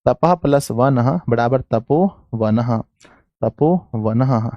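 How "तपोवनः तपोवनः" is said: slow, spelling out तपोवनः as ta-po-va-nah; slow dictation. Shown as a demonstration. Teacher dictating तपोवनः to students, slowly stretched out. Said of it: "note कीजिएगा".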